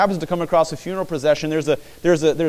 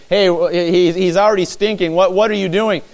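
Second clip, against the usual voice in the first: indignant protest; 5 semitones higher, 6 dB louder than usual. Retold or imitated. Martha protesting at the tomb.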